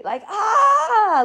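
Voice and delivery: high, drawn-out ah; a second cry of pure energy; mock cathartic scream; retold release cry. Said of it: "all that energy".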